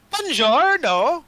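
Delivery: slow, high, sing-song Italian greeting; Italian accent. Acted. Game master greets players as a male drow, Italian accent. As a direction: draw it out in a hammed-up Italian accent. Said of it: "I'm gonna give him Italian".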